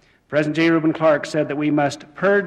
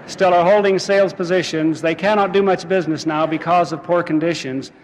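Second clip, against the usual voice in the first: metrical verse, starting raised and settling down; rhymed moral recitation. Acted. Speaker to laughing congregation with the fable's moral, verse recitation. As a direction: launch the rhyming moral strongly, then ease off.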